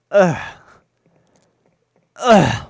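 loud, high "ugh"; loud grunt of disgust. Real, not acted. Player reacting to game trouble, loud groan.

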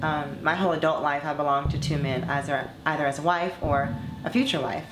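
measured, earnest read of a personal essay; composed monologue reading. Acted. Former performer reading her reflections on dating to fans, composed monologue. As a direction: read it as a composed confession, evenly and deliberately. Reads own written monologue over music.

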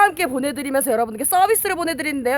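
lightly loud sales pitch; home shopping host. Acted. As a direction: push the deal like a TV host. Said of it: "홈쇼핑 버전".

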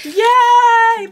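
high sarcastic yay; mock cheer. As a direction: fake delighted squeal. Mock cheer at friend's surgery.

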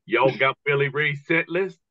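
slow, lightly voiced redneck drawl; a hint of a slow, menacing redneck. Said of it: "two giant rednecks go".

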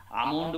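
"আমন্ড" said a-mond, no L; silent L in almond. Shown as a demonstration. Teacher says how we say almond, L silent. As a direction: go from A straight to M in "আমন্ড". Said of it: "আলমন্ড নয় কখনো".

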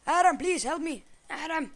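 high, loud desperate call; pleading yell. Real, not acted. Gamer begging friend Adam for help, desperate high yell. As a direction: beg your friend for help.

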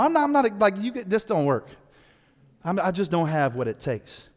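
lightly voiced reluctant Moses. Moses voiced pleading inadequacy.

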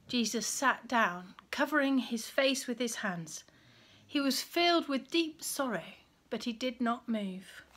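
put-on reading a Bible story aloud to children; gentle storyteller reading; story narration. A narrator's reading.

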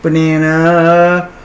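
stretched slow and sing-song; silly drawn-out voice. Pretend. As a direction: drag the word out playfully.

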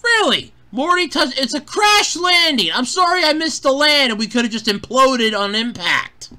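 high, exasperated disbelief; indignant mock protest. Defending Morty's crash landing in the ocean, mock indignant.

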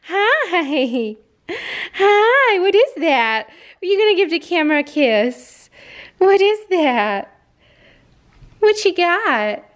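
high, slowed cooing pet voice. Real, not acted. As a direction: coo sweetly at the puppy. Cooing at puppy on camera.

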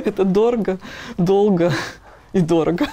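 дорого, долго, дорого, each one stressed; emphatic. Real, not acted. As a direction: punch out every item, dead serious. Emphatic list of drawbacks.

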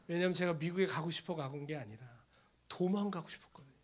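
ordinary talk, nothing marked

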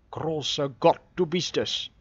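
startled, loud gasped cry; gasping exclamation. A narrator's reading. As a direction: burst out in shock at the door. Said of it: "keuchte John Ferrier".

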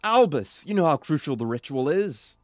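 lightly acted indignant character; mildly dramatic confrontation; game character's voice. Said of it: "I'm getting their voices mixed up".

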